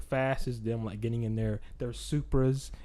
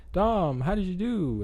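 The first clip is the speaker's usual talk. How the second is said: Letty voice; 9 semitones higher than usual. Retold or imitated.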